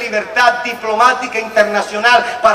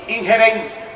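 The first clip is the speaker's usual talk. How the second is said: reading a definition; 4 dB louder than usual. Shown as a demonstration. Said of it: "y decía algo así".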